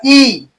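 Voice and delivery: ई held long with the tongue forward; front vowel. Shown as a demonstration. Teacher showing the tongue's front part, held ई. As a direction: sustain ई at the front of the mouth. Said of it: "आगे वाला".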